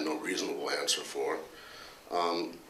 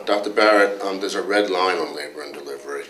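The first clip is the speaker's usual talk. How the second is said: louder, a touch indignant complaining colleague; Dr. Anderson; 7 dB louder than usual. Retold or imitated. Colleague grilling the department head about hospital rules, mock indignant. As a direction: press the boss with mock exasperation, half-laughing. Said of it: "went something like this".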